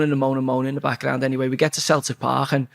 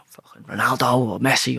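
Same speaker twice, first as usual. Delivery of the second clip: unvoiced, hushed mock reply; whispered answer; 3 semitones lower than usual. Teammates answering at the hotel table, hushed whisper. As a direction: whisper the teammates' answer under your breath.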